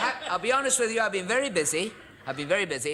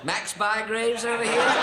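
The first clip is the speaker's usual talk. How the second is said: mock excited; 9 semitones higher, 4 dB louder, slower than usual. Real, not acted. Pointing out photo figures.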